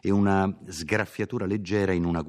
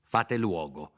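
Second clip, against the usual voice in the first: a haughty nobleman ordering him aside; cold, lordly order to make way; proud order without raising the voice; imperious command. Acted. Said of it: "col cipiglio imperioso … in un tono corrispondente".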